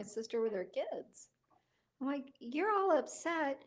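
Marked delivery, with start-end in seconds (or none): 2.4-3.6 higher-pitched retold scolding, building louder; mock exasperated lecture. Talking to sister about her kids, mock exasperated. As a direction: lecture her, rising to a high, loud finish.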